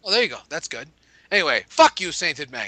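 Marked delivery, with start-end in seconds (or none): 1.3-2.7 gentlemanly. Retold or imitated. Host repeating the letter's insult back, politely gentlemanly. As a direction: say the curse like a courteous gentleman. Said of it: "I like that you say it in a very gentlemanly way".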